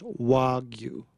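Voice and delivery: "Wagyu" said slowly as WAH-gyu; Japanese pronunciation. Shown as a demonstration. Guest teaches the host "Wagyu", slow Japanese-style WAH-gyu. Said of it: "So it's pronounced".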